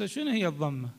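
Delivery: fast, soft puzzled asking; a student fumbling the question quickly; imitated questioner. Teacher voices a confused student, quick and soft. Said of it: "هسه قد واحد يقول".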